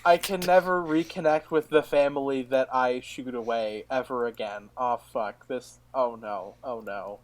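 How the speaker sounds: a hint of muttering darkly, fading quiet. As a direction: mutter it darkly under breath. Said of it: "What was that voice?".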